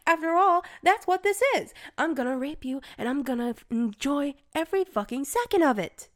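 loud, high, menacing threats; menacing shout. Acted. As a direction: threaten with cruel glee.

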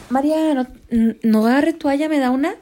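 pleading. Retold or imitated. Asking grandma for towel.

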